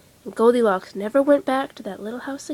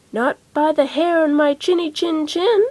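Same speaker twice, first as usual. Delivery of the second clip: higher, squeaky pig defiance; defiant little pig; 5 semitones higher than usual. Acted. The first pig refuses the wolf, high defiant voice. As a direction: refuse like a small brave pig.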